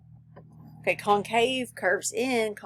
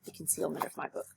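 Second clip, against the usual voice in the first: whispered, as if hiding something; whispered secret; hushed; 3 semitones lower, 10 dB quieter than usual. Shown as a demonstration. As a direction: keep it secret, barely voiced. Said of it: "being hidden".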